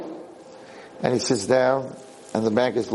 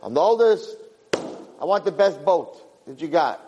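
demanding eldest son; 4 semitones higher than usual. Acted. Eldest son demanding best boat.

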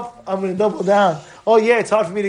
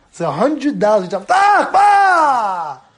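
high, loud cry of emphasis; preaching shout; 3 semitones higher, 4 dB louder than usual. Real, not acted. Rabbi shouting to his class about giving. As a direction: shout the hundred dollars home.

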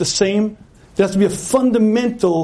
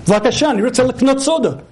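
pleading again; 5 semitones higher, faster than usual. Retold or imitated.

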